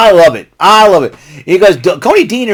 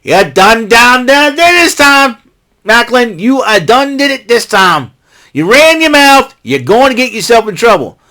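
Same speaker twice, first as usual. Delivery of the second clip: warning Maclin; 5 semitones higher than usual. Retold or imitated. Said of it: "I'm like".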